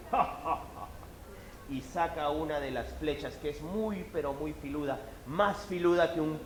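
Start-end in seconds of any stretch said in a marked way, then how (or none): 0.1-0.9 hunter's laugh. Acted. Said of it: "El cazador coge una flecha y dice".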